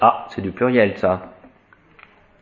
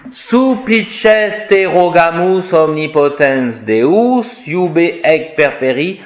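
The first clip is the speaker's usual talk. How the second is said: slow, solemn recitation of the Latin prayer; liturgical Latin reading; slower than usual. Acted. Priest reading the Canon prayer to his Latin students, slow and solemn. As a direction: intone it like at the altar.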